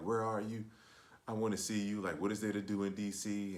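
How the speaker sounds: put-on desperate, needy, pleading tone. Retelling how she asked to meet up at night: imitating someone begging. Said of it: "she's begging, like".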